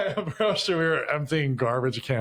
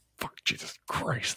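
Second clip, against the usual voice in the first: quieter, muttering under the breath; 7 dB quieter than usual. Retelling how the clerk mopping the floor reacted: imitating muttering under breath. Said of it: "under his breath".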